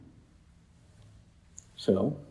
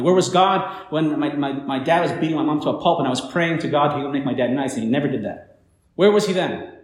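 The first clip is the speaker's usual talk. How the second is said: raised, accusing voice reliving an outburst; retold angry yelling; 3 semitones higher, 4 dB louder than usual. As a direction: re-enact the angry outburst, loud at the start and end. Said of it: "I started yelling at him".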